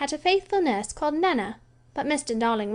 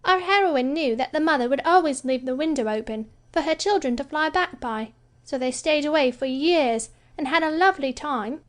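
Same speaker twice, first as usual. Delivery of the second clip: complacent; 6 semitones higher than usual. Acted. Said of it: "Wendy said complacently".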